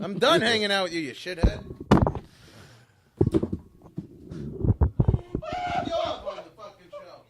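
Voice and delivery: staged furious rant, low then shouted; play-angry tirade at the host; mock rage. Fake angry rant at guest.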